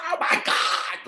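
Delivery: high, whispered oh my God; breathless starstruck gasp; imitating the sister freaking out. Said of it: "she was, like, freaking out".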